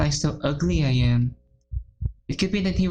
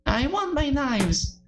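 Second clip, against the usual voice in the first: wailing; 9 semitones higher, slower than usual. Acted. Yuri breaking down over knives.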